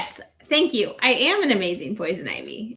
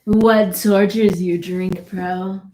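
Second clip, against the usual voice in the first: weird sultry voice; 4 semitones lower, 3 dB louder, slower than usual. Acted. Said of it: "That voice is weird".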